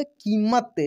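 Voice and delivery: कीमत with the ee held long. Shown as a demonstration. Teacher answering his own question, कीमत with long ee. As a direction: hold the first vowel of कीमत. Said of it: "long pronunciation होता है".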